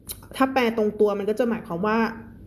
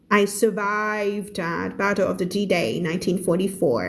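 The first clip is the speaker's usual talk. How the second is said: a bit affected; much slower than usual. Shown as a demonstration. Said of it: "จริตเยอะนิดนึง".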